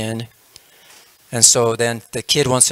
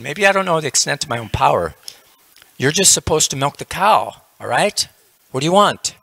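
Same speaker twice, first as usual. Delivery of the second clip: mock exasperation; 3 semitones higher than usual. Yogi argues with crying wife.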